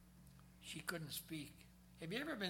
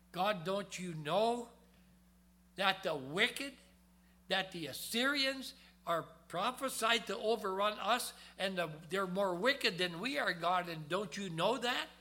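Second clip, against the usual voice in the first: pleading prophet; 3 semitones higher, 4 dB louder than usual. Retold or imitated. Preacher voices Habakkuk pleading with God.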